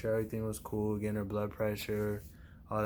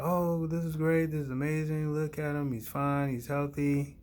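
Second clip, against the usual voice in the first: excited relief; 5 semitones higher than usual. Retold or imitated. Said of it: "We're like".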